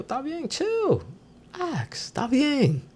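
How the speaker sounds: high soft voice saying Está bien, chill, relax; soothing falsetto. Shown as a demonstration. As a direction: coo it to cool the fight down. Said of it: "de-escalate a situation".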